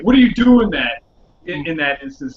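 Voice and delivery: incredulous. Retold or imitated. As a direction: replay your baffled reaction at a reckless driver. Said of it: "almost incredulous".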